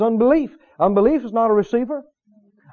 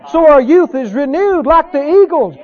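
raised, emphatic preacher's cadence; fervent preaching; 5 semitones higher, 3 dB louder than usual. Real, not acted. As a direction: preach it with mounting joy. Preaches with rising fervour.

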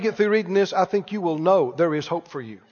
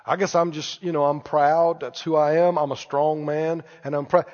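lower-pitched mock proud excuse; mild self-justifying; 5 semitones lower, 3 dB quieter than usual. Proud man explaining himself to the preacher, mild self-justifying. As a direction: lightly play someone justifying their pride.

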